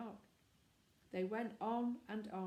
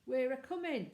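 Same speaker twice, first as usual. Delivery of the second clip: put-on higher and louder, eager boy calling out; eager boyish shout; 5 semitones higher, 7 dB louder than usual. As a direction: call it out keen and excited.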